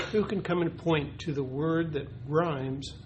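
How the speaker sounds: slow, clear teacher question to the class; teacher asking the class. Shown as a demonstration. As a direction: ask it like a teacher at circle time. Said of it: "That's what a teacher would say".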